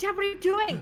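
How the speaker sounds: panicked calling out. Voicing a character running after her fleeing dad: panicked calling out. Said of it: "Amanda starts running after him".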